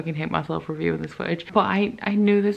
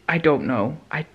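anxious whisper to herself; 3 semitones lower than usual. Real, not acted. Reader whispering her worry to the camera, hushed. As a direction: breathe it out, worried. Anxious musing about book ending.

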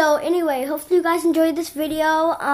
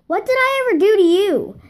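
higher and louder, aggrieved question; retold quarrel, pitched up in protest; indignant protest; 6 semitones higher, 5 dB louder than usual. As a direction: re-enact a wounded, indignant comeback.

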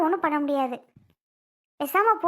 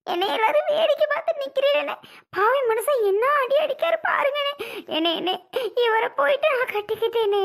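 wailing complaint; 5 semitones higher than usual. Acted. Wife wailing to her brother that her husband beat her. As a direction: wail it out to the brother, half sobbing.

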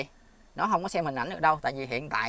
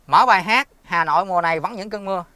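clear voice command; 4 semitones higher, 8 dB louder than usual. Real, not acted. Dictating a command to Google Assistant.

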